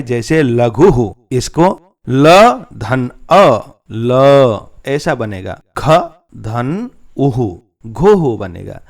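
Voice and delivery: slow teacher's letter drill; slow spelling out. Shown as a demonstration. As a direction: break लघुः into letters slowly. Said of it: "एक उदाहरण दिया गया है".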